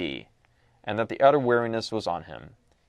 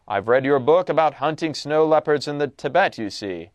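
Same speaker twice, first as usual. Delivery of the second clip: lightly voiced refined general; a hint of the aristocrat's precise, accented speech; cultivated host, lightly played; 3 dB louder than usual. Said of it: "cultivated voice, marked by a slight accent".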